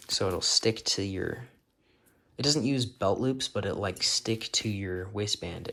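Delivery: retainer whistle on the s sounds; whistling s. Real, not acted. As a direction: let every s whistle through a retainer. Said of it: "Sorry for the whistling".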